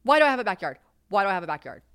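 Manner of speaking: loud complaint trailing off; exasperated outburst fading. Retold or imitated. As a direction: rant at the house, then run out of steam. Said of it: "Here, I'm like".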